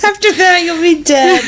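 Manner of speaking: fast, laughing echo of the line; laughing repeat. Real, not acted. Echoing the niece's line, laughing. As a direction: repeat it, cracking up.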